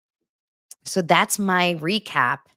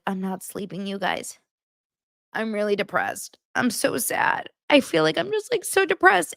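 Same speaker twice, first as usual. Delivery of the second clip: mocking her past self as a tired new mom, rising whine; mock whiny new mom; 4 semitones higher than usual. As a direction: overdo the new-mom misery, climbing higher. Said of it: "where I was like".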